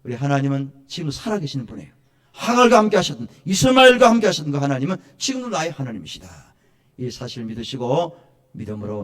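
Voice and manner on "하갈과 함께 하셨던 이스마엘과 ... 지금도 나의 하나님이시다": raised proclamation that settles at the end; high, loud opening, then a firm falling close; emphatic preaching. Real, not acted. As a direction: proclaim it with conviction from the pulpit.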